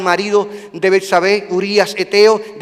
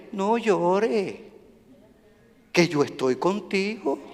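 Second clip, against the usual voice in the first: gentle voice of God. Acted. God speaking comfort softly.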